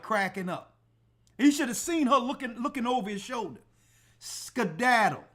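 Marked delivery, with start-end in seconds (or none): 4.2-5.2 "Skedaddle" stretched long and slow; slow, dismissive "Skedaddle"; drawn-out skedaddle. Retold or imitated. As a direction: drag out "Skedaddle" to shoo her off. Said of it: "is what I told her".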